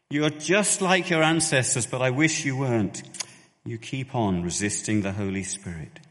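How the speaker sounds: loud, pleading, close to tears; tearful pleading. Shown as a demonstration. Stephen pleading with religious elders, near tears. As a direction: beg them as if holding back tears. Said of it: "Stephen was not far from tears as he pleaded".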